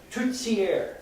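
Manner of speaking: tourtière with the second t hissed as "ts"; Canadian French TS. Shown as a demonstration. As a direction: say tourtière slowly as "tour-tsière". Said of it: "T Z sound".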